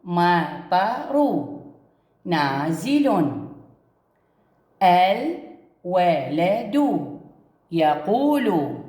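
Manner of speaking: المطر نازل and الولد يقول stretched very slowly, each word drawn out; very slow reading. Shown as a demonstration. Teacher models sentence-start ال for pupils, very slow. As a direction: read it word by word, very slowly, for children. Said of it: "يكون هذا شكله".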